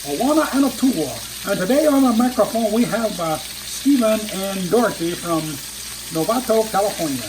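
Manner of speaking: TV bandleader. Retold or imitated. The speaker plays a TV bandleader introducing dancers, mock announcer. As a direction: count the band in like a TV bandleader. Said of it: "my bandleader quote".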